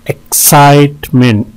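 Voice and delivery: "एक्साइटमेंट" in three beats, middle one held; syllable breakdown. Shown as a demonstration. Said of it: "तीन syllable हैं". ("एक्साइटमेंट" तीन हिस्सों में)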